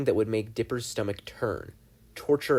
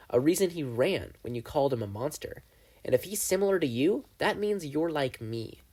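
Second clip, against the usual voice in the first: lightly voiced gleeful demon, a bit higher; Bill the demon; 3 semitones higher than usual. Bill compares Dipper to himself.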